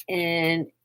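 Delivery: worn out, words trailing off; exhausted. Real, not acted. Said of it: "I'm sorry, I'm getting tired".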